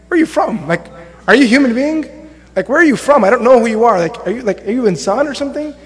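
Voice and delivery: mildly baffled, incredulous questioning; Umar bin Khattab, baffled. Retold or imitated. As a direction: imitate someone puzzled by a stranger, without anger. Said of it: "I'm not talking about beat you up or angry".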